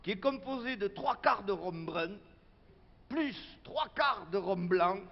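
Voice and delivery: proud, emphatic item-by-item announcement; meeting budget announcement. Acted. Local official presenting the supplies budget to activists, formal announcing. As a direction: announce it ceremoniously to the assembly. Reads out cocktail recipe to assembly.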